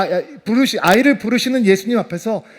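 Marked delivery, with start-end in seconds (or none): none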